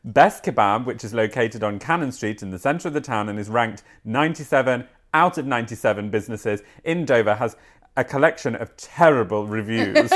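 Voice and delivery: reading a news article aloud, lightly amused. Acted. Presenter reading a kebab story to her co-host, lightly amused. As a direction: read the story out like a presenter, suppressing giggles.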